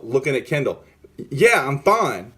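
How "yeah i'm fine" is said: slow, higher, curt brush-off; retold testy reply, pitched up; aggressive retort. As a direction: aggressively insist you're fine, drawing it out. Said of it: "I'm aggressive. I'm very aggressive".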